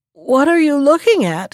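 a nervous bird's trembling question. A narrator's reading. Magpie fearfully asks the fox below, trembling voice. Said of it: "he asked in a trembling voice".

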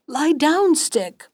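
mildly desperate storybook cry; calling out. A narrator's reading. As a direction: call it out sharply, dropping on the last word. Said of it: "hardly strength to call out".

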